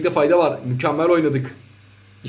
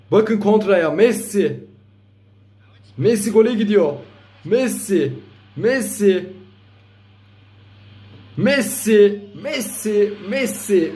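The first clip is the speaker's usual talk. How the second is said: excited commentator; 4 semitones higher, much slower than usual. Real, not acted. Counterattack goal, commentator build-up.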